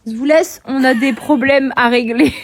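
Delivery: loud, slow announcement; mock dramatic.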